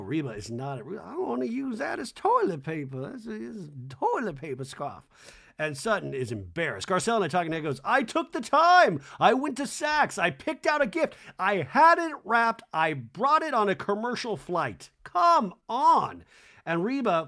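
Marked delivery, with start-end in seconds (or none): 1.0-5.0 mock old lady. Imagined Reba's thoughts. 7.8-16.2 high, loud, slow exasperated listing; indignant rant. Retold or imitated. Garcelle ranting to camera about the unappreciated gift, exasperated.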